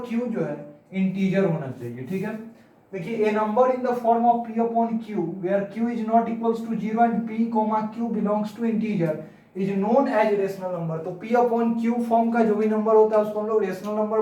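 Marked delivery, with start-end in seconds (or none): 3.2-11.0 slow, measured definition read-out; slow dictation. Shown as a demonstration. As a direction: spell out the definition slowly for note-taking. Repeats definition slowly to write. (परिभाषा धीरे-धीरे लिखवाना)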